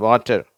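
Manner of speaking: வாட்டர் said as "wata", no final r; British pronunciation. Shown as a demonstration. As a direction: drop the r at the end of வாட்டர். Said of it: "பேப்பர் அப்படின்னு தான் உச்சரிக்கிறாங்க".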